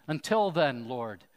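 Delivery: earnest, measured prayer voice; closing prayer. Acted. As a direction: lead the congregation in prayer. Closing prayer led by pastor.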